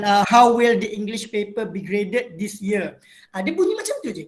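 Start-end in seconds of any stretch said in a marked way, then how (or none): 0.3-3.0 neutral international English accent, even and clear; international standard English. Shown as a demonstration. Teacher demonstrating neutral international English pronunciation to students. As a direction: read it in a neutral international accent, no British or American. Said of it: "macam contoh saya bacakan".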